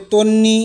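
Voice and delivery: তন্নি said as ton-ni, doubled n; তন্নি with a held double n; clear example word. Shown as a demonstration. Teacher shows students তন্নি with doubled n. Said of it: "এটি দুইবার উচ্চারিত হবে".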